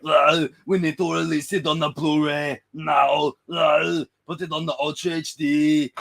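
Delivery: a loud mock yell, a bit out of his own voice; screaming in the background. Arnold yelling at the editors, a loud mock shout. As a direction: yell the order from the back of the room. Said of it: "he's just in the background screaming".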